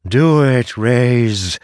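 lightly voiced dragon demanding; draconic voice. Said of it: "Kor said with her draconic voice".

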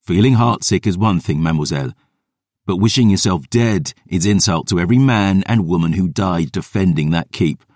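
stern rebuke. Acted. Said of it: "temper flashing".

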